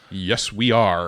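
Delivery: slow, deep radio voice. Shown as a demonstration. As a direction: lay on the announcer voice. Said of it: "talking in pitch voices right now".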